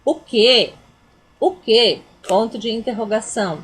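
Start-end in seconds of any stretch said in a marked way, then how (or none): 0.0-2.0 louder shocked what; indignant what. Shown as a demonstration. Teacher demonstrating the indignant question, shocked. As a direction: demand it in disbelief. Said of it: "eu tô indignando".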